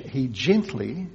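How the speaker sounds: "gently" said slowly and drawn out; slow, stretched "gently"; emphasis on gently. Shown as a demonstration. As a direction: linger on "gently". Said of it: "the emphasis here is on the word".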